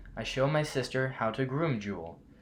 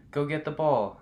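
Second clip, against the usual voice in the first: calling the dog loudly, higher; yell; 4 semitones higher, 4 dB louder than usual. Acted. Girl calling loudly to the puppy to fetch. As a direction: shout across the yard to the dog. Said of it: "I yell".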